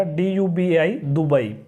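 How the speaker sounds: teacher sounding out दुबई; spelling then saying Dubai. Shown as a demonstration. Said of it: "द की तरह होगा".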